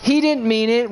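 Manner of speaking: high pleading excuse-making wife; high, loud mock wife making excuses; mock meek wife. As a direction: whine it like a wife covering for him. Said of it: "you're the wife who's like".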